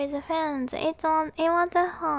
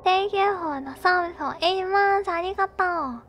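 loud, high excited thanks; 5 semitones higher, 6 dB louder than usual. Real, not acted. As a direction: gush with thanks.

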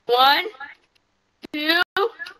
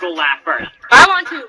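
drawn-out shout; 6 semitones lower, 6 dB louder, much slower than usual. Real, not acted. Eager kid volunteering.

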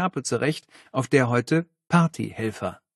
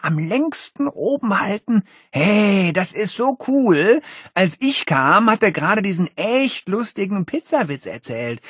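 high, gushing seventh-grader; eager boy; 6 semitones higher, 4 dB louder than usual. Acted. Seventh-grader gushing to his friend about Cody. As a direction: bubble over about your hero.

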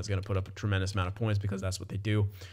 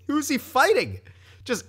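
laughing; 14 semitones higher, 4 dB louder than usual. Real, not acted. Laughing at absurd fight stats.

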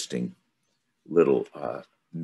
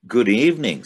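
bright, polite greeting, pitched higher; courteous little prince; 8 semitones higher, 7 dB louder than usual. Acted. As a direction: greet him kindly like a well-mannered boy. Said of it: "said the little prince courteously".

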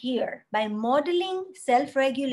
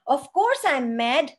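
put-on mad child; 2 semitones higher, 5 dB louder than usual. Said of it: "So the child says".

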